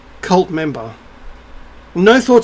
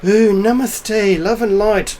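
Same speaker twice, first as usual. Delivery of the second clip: slow, higher, airy-fairy spiritual voice; mock puffy voice; 3 semitones higher, slower than usual. Imitating alternative spirituality people in white, mock puffy tone. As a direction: parody a drawn-out New Age greeting. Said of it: "talk in this kind of puffy tone of voice".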